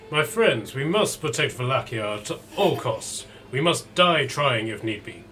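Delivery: put-on a light Eastern European accent, solemn rallying; rally your friends in a mild Eastern European accent. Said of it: "they've got an Eastern European accent to them".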